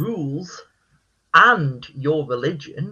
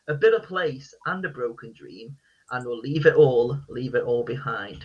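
deadpan; 2 semitones lower than usual. Shown as a demonstration. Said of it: "I do it in this deadpan voice".

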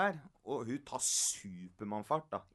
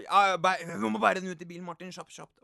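urgent mock order; 6 semitones higher, 10 dB louder, faster than usual. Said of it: "Og så".

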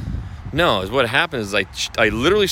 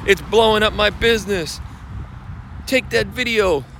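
higher, slow, mocking guru voice; higher and slow, parroting the top realtors; mock marketer hype; 8 semitones higher than usual. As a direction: send up the confident marketing pitch. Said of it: "top realtors were saying".

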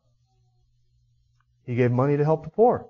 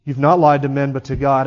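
Peter's loud rebuke; 2 semitones lower, 4 dB louder than usual. Acted. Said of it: "look what happens in verse five".

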